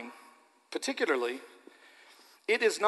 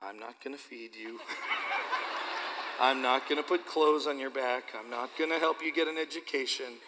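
put-on reluctant child's vow; 4 semitones lower, 5 dB quieter than usual. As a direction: imitate a girl forcing out hard words. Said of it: "she swallowed hard and went".

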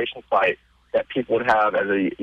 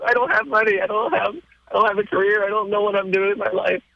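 nervous laughing; 10 semitones higher than usual. Retold or imitated. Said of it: "I'm nervously laughing during this".

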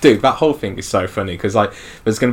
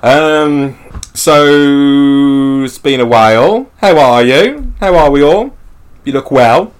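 mock small talk; 5 semitones higher, 10 dB louder, slower than usual. Exaggerated small talk greeting.

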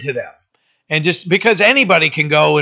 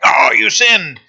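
mock stern parent; slower than usual. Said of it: "too stern and harsh with them".

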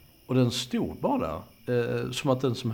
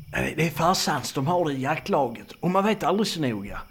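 higher-pitched excusing voice; apologetic; 5 semitones higher than usual. Acted. Man excusing the knife he brought, apologetic. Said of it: "ursäktade han".

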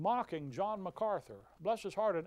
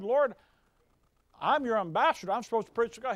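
loud, indignant retold plea; preacher acting out a protest to God, loud and indignant; loud mock protest; 3 semitones higher, 8 dB louder, faster than usual. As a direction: protest loudly like a wronged ambassador.

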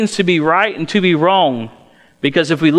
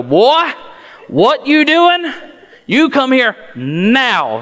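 redneck dad scolding; 8 semitones higher, slower than usual. Retold or imitated. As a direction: holler at the boy like a redneck father. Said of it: "that's when my Wakulla County comes out".

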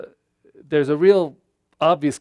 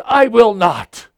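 defiant refusal; 6 semitones higher, 9 dB louder, slower than usual. Retold or imitated. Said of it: "And he says".

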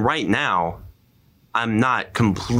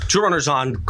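swallowed wrong way; 4 semitones higher than usual. Real, not acted. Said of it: "Went down the wrong pipe".

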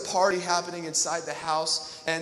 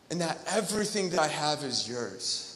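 softer tender repeat of "everything that I have is yours"; softer echo; 2 semitones lower, 5 dB quieter than usual. Shown as a demonstration. Pastor repeating the father's words to the congregation, softer and tender. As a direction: let it land quietly.

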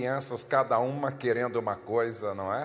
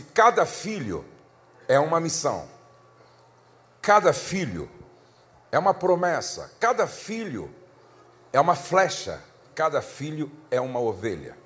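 louder, rising refrain on cada filho; preaching build; 3 dB louder than usual. Acted. Pastor exhorting the congregation about children, rising preaching voice. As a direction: proclaim each line stronger. Preaching cadence on repeated phrase.

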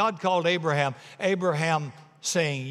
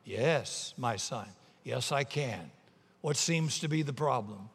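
lower, softer, unhurried reply; calm voice; 3 semitones lower, 5 dB quieter than usual. Acted. The Lord replying to panicking tourist, calm. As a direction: answer him with serene composure. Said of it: "The calm voice replied".

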